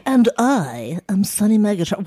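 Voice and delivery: squeaky cartoon voice. Real, not acted. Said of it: "why do I have a cartoon voice".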